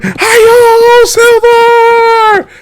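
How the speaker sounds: high, loud cowboy yell; uncle's battle cry. Retold or imitated. Uncle spurring the horse downhill, loud high cowboy yell. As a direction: whoop it like a Lone Ranger charge. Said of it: "And my uncle's going".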